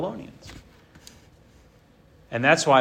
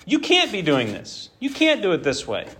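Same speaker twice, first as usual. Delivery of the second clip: protesting prophet, pitched up; a pleading, indignant prophet; lightly voiced, higher indignant protest; voicing Habakkuk; 6 semitones higher than usual. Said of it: "He was saying".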